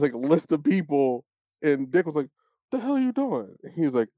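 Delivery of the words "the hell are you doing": high-pitched incredulous question; retold disbelief. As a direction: act out Dick's shocked challenge, pitched up. Retold shocked challenge to Batman.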